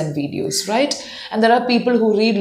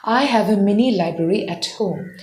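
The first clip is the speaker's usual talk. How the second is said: slow first. Shown as a demonstration. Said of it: "So go slow first".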